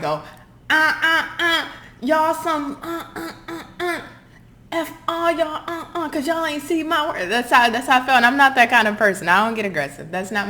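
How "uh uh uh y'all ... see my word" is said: mock rant in a much higher put-on voice; hammed-up snapping. Reader acting out snapping at doubters, hammed-up high rant. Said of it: "I'm ready to snap on somebody".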